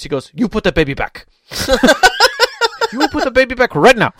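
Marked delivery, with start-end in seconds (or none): 0.3-1.3 loud, much higher commanding parent voice; stern character voice. Retold or imitated. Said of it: "right in character voice". 1.5-2.9 high loud laugh breaking the act; burst of laughter. Real, not acted. Laughing mid impression. 2.9-4.1 loud, much higher commanding parent voice; stern character voice. Retold or imitated. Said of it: "right in character voice".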